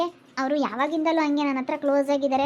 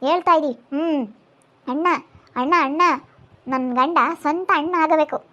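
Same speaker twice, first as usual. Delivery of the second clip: loud, emphatic self-justification; heated insistence; 5 dB louder than usual. Acted. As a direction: assert your family right forcefully. Acted quarrel, asserting her right. (ಜೋರಾಗಿ ಹಕ್ಕು ಸಾಧಿಸುವ ಧ್ವನಿ)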